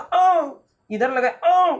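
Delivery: put-on slow, pained cry of a sick boy; pained yelp. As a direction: stretch out a whimpering cry where it hurts. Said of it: "Mohan चिल्ला रहा है". (दर्द से कराहती चीख)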